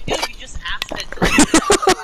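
exasperated. Retold or imitated. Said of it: "It's like".

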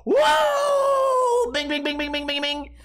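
huge high shout then chanted bing; cashier whoop. Retold or imitated. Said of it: "that guy goes".

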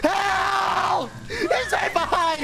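panicking gamer. Real, not acted. Being chased, calling for help.

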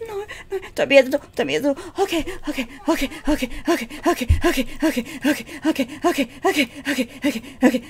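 very soft, rapid muttered repeating; nervous muttering. Real, not acted. Player dreading someone at the door, nervous hushed mutter. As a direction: mutter it under your breath, urgently.

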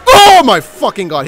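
loud, high panicked curse; startled shout on being spotted. Real, not acted. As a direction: yelp it when caught. Spotted by the neighbor.

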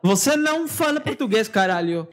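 playful protest in Portuguese; mock scolding. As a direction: tell them off in one quick run.

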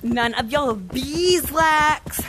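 slow, drawn-out playful refusal; cheeky slow taunt; teasing. Pretend. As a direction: stretch out BEESWAX to tease the seeker. Teasing slow reply to seeker.

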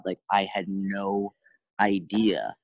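slow, drawn-out disbelief; stunned realization. Acted. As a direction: voice someone's stunned realization, stretching the words. Voicing people's shock at calorie counts.

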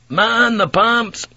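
shouted order, high and drawn out; Blackthorne. A narrator's reading. Blackthorne orders the crew in a storm, shouted. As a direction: shout the command slowly, pitched well up. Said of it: "Blackthorne shouted".

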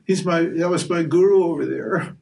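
a lightly voiced Arjuna, protesting; Arjuna pleading. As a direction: beg to be let off the fight. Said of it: "And Arjuna said".

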